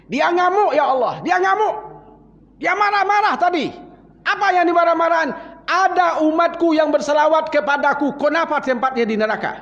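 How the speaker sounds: alarmed angels. Acted. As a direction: blurt it out like panicked messengers. Angels report Muhammad's rage. (malaikat melapor dengan panik kepada Allah)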